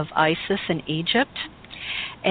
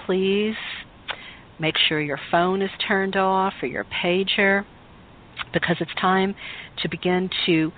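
guided meditation. Acted. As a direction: guide them gently inward, unhurried. Leads a guided Isis meditation.

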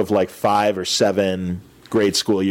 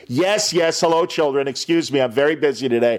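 curt brush-off; 3 semitones higher than usual. Retold or imitated. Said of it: "he shuts them down so fast".

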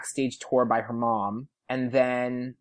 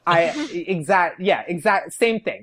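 stumbling, higher starstruck babble; flustered over-agreeing; 4 semitones higher, 3 dB louder than usual. Retold or imitated. Fan agreeing with a singer about outfits, flustered and giggly. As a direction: fall over yourself to agree.

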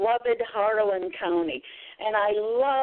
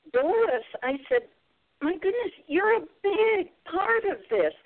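heartfelt; 8 semitones higher than usual. Retold or imitated. Thanking mentor on the phone.

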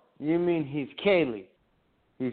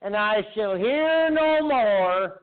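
slow solemn preacher tone; religious preacher voice; 2 semitones higher than usual. Acted. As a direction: intone like a zealot. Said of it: "I'm speaking in a religious accent".

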